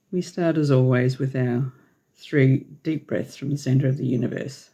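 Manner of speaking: measured meditation lead with long pauses; unhurried phrases spaced out for breathing; guided meditation. Real, not acted. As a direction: guide listeners gently through breaths, leaving long silences.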